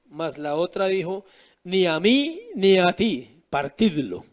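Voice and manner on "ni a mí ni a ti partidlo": slow, cold voice of the spiteful mother; slow, heartless envious mother; envious woman. Acted. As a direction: hand down the cruel verdict slowly, without pity. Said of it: "¿Cuál era la envidiosa?".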